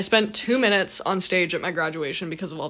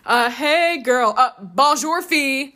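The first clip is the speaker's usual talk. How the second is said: slow, louder fake French accent; mock French pop singer; 3 semitones higher, 6 dB louder than usual. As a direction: ham up a cheesy French pickup line. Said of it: "a singer spoke French".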